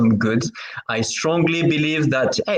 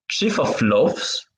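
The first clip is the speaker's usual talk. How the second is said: Chief of Loves said with a French accent, laughs as "loves"; French-accented English; slower than usual. Real, not acted. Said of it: "it's my French accent".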